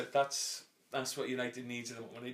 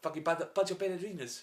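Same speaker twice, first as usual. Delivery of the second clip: put-on South African accent; 4 semitones higher than usual. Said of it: "go into the fucking South African".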